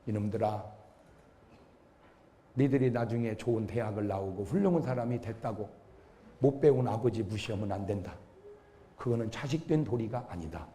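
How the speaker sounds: low, soft, grave admonition; quietly impart a lesson as an old teacher; earnest teacher. Retold or imitated. Middle school teacher counsels pupils about fathers, low and earnest. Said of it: "우리 선생님이".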